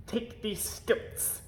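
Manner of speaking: slow, hushed, urgent order; whispered command. A narrator's reading. Lord Droon whispering an order to the page boy from the window. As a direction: whisper the order so nobody hears. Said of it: "commanded Lord Droon".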